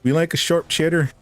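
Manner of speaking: high-pitched mock Wisconsin accent; attempted Wisconsin accent. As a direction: have a joking go at a Wisconsin accent. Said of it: "can't do the accent".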